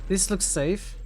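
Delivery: dry sarcastic remark. Real, not acted. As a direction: say it with heavy irony. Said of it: "I was sarcastically saying".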